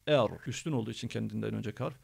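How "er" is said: "er" with a heavy dark rolled R; thick R. Shown as a demonstration. Teacher explaining heavy ra, thick "er". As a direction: darken the vowel and R of "er". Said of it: "ra kalın olduğu için".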